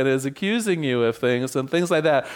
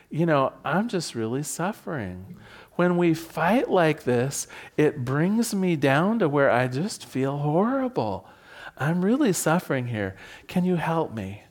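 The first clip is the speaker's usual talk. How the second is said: sincere plea. Shown as a demonstration. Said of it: "look them right in the eye and say".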